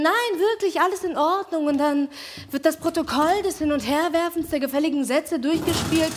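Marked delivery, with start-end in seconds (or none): 0.0-1.7 higher, falling denials; a lifted voice, playing it down; insisting she's fine. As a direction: brush off the question a second time. She keeps insisting.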